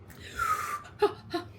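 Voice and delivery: a high, half-crying squeal of a laugh; overwhelmed teary giggle. Real, not acted. Overwhelmed by gift.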